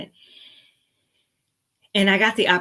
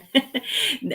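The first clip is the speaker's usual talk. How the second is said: real laugh; 10 semitones higher than usual. Real, not acted. Laughs after greeting.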